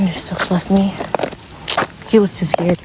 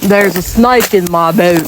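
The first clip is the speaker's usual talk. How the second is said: cowboy catchphrase impression; 3 semitones lower than usual. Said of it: "Watch me".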